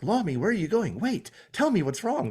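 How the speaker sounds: high, mocking pleading call. Mocking the show's trope to co-host, high pleading. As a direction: parody the clingy crewmate.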